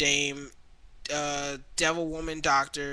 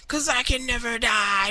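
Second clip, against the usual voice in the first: higher, louder hammed-up yell; mock shout; 8 semitones higher, 5 dB louder than usual. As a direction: bellow it like the crazy immortal guy. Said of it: "he goes, like".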